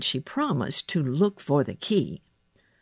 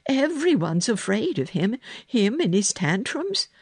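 higher-pitched maid, amazed; Martha; 6 semitones higher than usual. A narrator's reading. Maid warning the girl about the boy, amazed and higher. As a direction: exclaim it as an incredulous servant.

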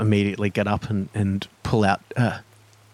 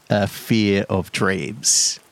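slow ominous; much slower than usual. Acted.

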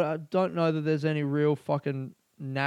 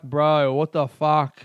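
louder, incredulous protest; mock outraged bro; 8 dB louder, slower than usual. Friend reacting to the Turkish jab, loud mock outrage. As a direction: bark it like an offended mate. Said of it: "He's like".

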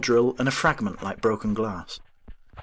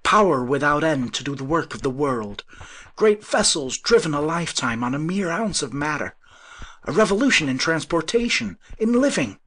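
high, loud visionary excitement; rising voice; 7 semitones higher, 5 dB louder than usual. A narrator's reading. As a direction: build higher as the vision grows. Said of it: "Again his voice rose".

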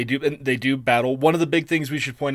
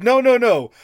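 mock scolding; 10 semitones higher, 6 dB louder than usual. Mock Agamemnon scolding Menelaus.

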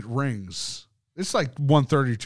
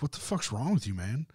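mock offhand mutter; 8 dB quieter than usual. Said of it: "And they're like".

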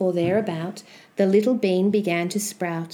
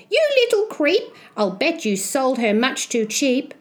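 lightly voiced cross mother, pitched up at first; scolding mother; 4 semitones higher than usual. Mother suspecting her son's bad bargain, mildly scolding. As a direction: scold with a high opening jab.

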